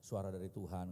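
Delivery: low, soft meek excuse; resigned husband. Retold or imitated. Husband excuses himself to angry wife, low and meek. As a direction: say it small and low. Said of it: "saya bilang".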